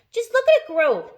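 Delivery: high, loud excited exclamation; excited cry. A narrator's reading. Aunt marvels at the peach, crying out high and loud. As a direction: cry out in wonder at the growing peach. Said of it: "Aunt Spiker cried".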